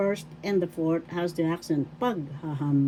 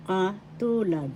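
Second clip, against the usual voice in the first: Katulad slowly, stress on TU; kaTUUlad, said slowly for learners; stress on second syllable; 2 semitones higher than usual. Shown as a demonstration. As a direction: stretch the middle syllable of Katulad. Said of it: "The second syllable has the accent".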